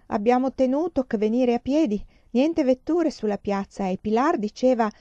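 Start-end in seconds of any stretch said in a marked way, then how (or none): 0.1-3.9 put-on high, loud, lilting older Spanish woman; a big Spanish matron, singsong and emphatic; loud singsong Spanish lady. A narrator's reading. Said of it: "Parlava a voce alta, stridula e cadenzata". (signora spagnola, voce alta e cantilenante)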